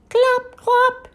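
high-pitched paired clops; high hoofbeat imitation; horse-hoof clops. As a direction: clop high like quick hooves. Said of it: "sound like a horse feet".

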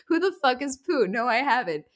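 retold reply in a mild Australian accent. Fiance puzzled by Poot, lightly imitated Australian accent. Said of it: "naturally beautiful Australian accent".

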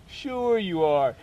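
drawn-out mock agreement; skeptical. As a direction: stretch it out, humouring an obvious joke. Disbelieves the manager is serious.

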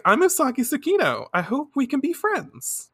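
high-pitched cutesy introduction; adorable heroine. Retold or imitated. Heroine introduces herself to the idol, adorably. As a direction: introduce yourself in a sweet, high voice. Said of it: "she looks so fucking adorable".

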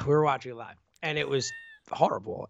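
whispered, breathy horrible. Real, not acted. Describing the injury.

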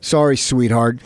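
low, offhand fake apology; mock-dismissive brush-off. Co-host mimicking a suspension of basic chivalry, mock-dismissive. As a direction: toss it off like a condescending kiss-off.

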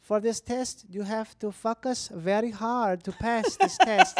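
put-on slow, deliberate Mexican accent; earnest professor with a Mexican accent. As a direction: imitate a Mexican professor addressing the class. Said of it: "my friend's wife's Mexican".

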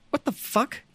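laughing disbelief; high, laughing what-the-hell; incredulous. Retold or imitated. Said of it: "I was like".

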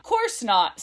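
put-on Cockney talking bird; Cockney accent. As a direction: answer in a bad Cockney accent. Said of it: "the Cockney accent comes out".

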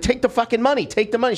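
insistent, high-pitched urging; retold arguing. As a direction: act out pushing someone to give in.

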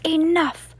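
sudden high, loud shout; shouted enough. Acted. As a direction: cut her off sharply. Alchemist cuts her off.

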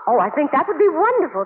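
delighted. Acted. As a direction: agree with bright relief. Joe agrees eagerly.

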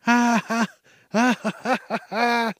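high, loud, hammed-up laughter; hearty fake laugh. Shown as a demonstration. Laughing at friends while ignoring a dropped item, hammed-up laugh. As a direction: laugh it up like you can't stop. Shows laughing too hard.

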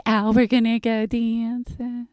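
slow, drawn-out near-breakdown voice; stretched words, nerves about to snap; Cindy. Retold or imitated. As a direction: imitate a friend about to have a nervous breakdown. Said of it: "That's how she talks".

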